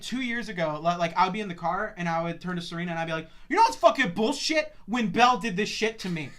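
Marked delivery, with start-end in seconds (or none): 3.5-6.3 griping rant. Retold or imitated. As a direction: vent an old grudge to a friend. Retold rant to Serena.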